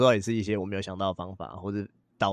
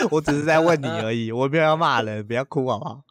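laughing at self; 3 semitones higher, 3 dB louder than usual. Retold or imitated. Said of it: "铁血教练".

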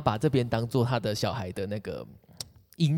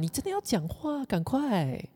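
coaxing parent; 12 semitones higher, 6 dB quieter than usual. Pretend.

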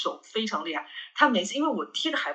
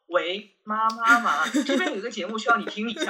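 mock phone call; 3 semitones higher than usual. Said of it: "我现在就要说".

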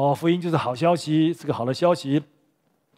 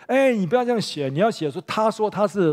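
sharp, high, raised protest; angry protest; 5 semitones higher than usual. Retold or imitated. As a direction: object hotly to the wording. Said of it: "犹太人就很生气".

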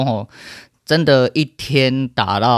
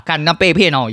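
usual speaking voice

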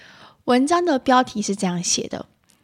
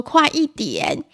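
raised-pitch, drawn-out hurrying; irritable mother; 6 semitones higher, much slower than usual. Acted. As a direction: act a mildly impatient mum. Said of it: "暴躁的妈妈会说". (暴躁妈妈拖长音催促)

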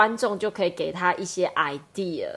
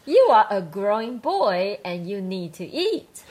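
lightly voiced mother; slow, measured motherly line; mom; 2 semitones higher, 3 dB louder, slower than usual. Co-host plays mom to a hungry son, lightly acted. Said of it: "do you want me to be mom".

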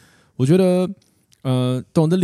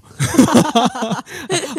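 shy laugh; 11 semitones higher, 4 dB louder than usual. Real, not acted. Shy about announcing marriage.

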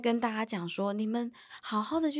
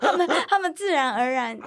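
higher and louder through a laugh; 7 semitones higher, 8 dB louder than usual. Real, not acted. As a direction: laugh while explaining it. Laughs at her own answer. (笑着说)

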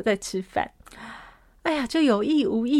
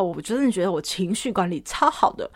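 ordinary delivery

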